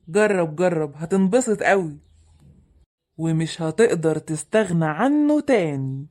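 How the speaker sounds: tempting. Acted. The bad friend pushing the drink, slow and sly. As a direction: lure him in slowly and darkly.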